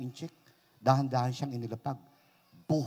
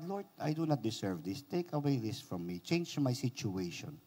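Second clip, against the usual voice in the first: low, softer earnest plea; hushed, humble petition; retold prayer; 5 semitones lower, 6 dB quieter than usual. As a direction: plead quietly with God. Retells his prayer to God.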